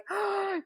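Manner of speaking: delighted high gasp; excited gasp. Retold or imitated. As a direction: gasp with joy. Excited by the cheering crew.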